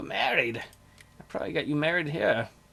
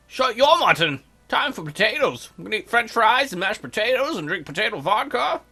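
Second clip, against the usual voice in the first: potato-mad chief; 5 semitones higher than usual. Retold or imitated. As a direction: rant about potatoes. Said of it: "Chief Dan rants about potatoes".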